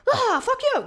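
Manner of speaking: sudden high, loud outburst; a hammed-up fuck you; mock fuck-you. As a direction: spit out a mock angry curse. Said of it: "I don't mean it quite like that".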